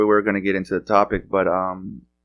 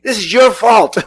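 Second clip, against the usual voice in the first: high, louder mock wife accusation; wife blaming; 12 semitones higher, 7 dB louder than usual. Host imitates wife blaming him, high mock accusation. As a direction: pin the blame on him like the wife. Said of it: "she looks at me".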